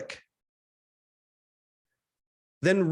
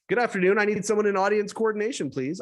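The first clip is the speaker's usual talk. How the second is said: confident like Batman; 3 semitones higher than usual. Retold or imitated. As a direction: go for Batman confidence, landing closer to Robin. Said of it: "as sure and confident as Batman".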